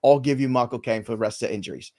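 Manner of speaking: Cockney British impression; Michael Caine. Host reads baseball injuries as a Cockney actor, Michael Caine impression. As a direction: deliver it as a Cockney film star. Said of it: "It's almost, it's almost Michael Caine".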